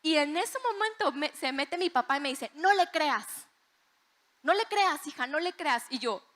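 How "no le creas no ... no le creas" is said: high, louder pleading warning; insistent acted-out warning to a daughter; urgent father. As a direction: plead like an alarmed parent, retold. Acting father urgently warning her.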